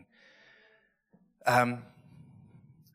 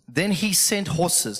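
slow, raised public reading voice; scripture reading; 4 semitones higher, slower than usual. Real, not acted. Preacher reading verse fourteen to the congregation, measured proclamation. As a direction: read it out slowly and higher.

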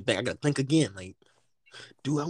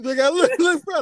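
excited; 10 semitones higher, 10 dB louder than usual. Real, not acted. Excited retelling of the bathroom shock.

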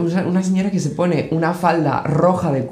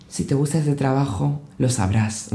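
mock wise advice; 2 semitones lower, 6 dB quieter, slower than usual. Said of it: "y dice".

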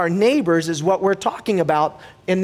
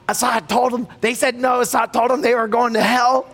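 put-on higher-pitched upset kid confessing; mildly acted tearful voice, pitched up; retold tearful child; 7 semitones higher than usual. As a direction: imitate a boy owning up through tears. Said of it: "crying this time".

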